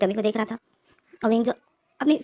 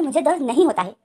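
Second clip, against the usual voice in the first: louder and higher, a sharp irritated no; angry denial; 4 semitones higher, 5 dB louder than usual. Acted. Wing to the midwife, angrily denying the pain. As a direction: snap back at the nosy nurse. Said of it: "विंग को गुस्सा आ रहा है".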